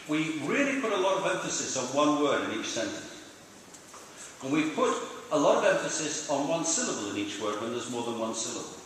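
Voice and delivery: one word in each phrase picked out with emphasis; emphatic stress. Shown as a demonstration. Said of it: "Did you get the example? Twice".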